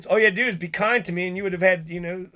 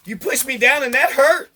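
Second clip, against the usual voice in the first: mocking bully; 5 semitones higher than usual.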